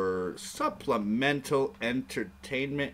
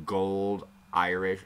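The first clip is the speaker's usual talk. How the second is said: put-on Irish accent; slower than usual. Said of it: "Is that Irish?".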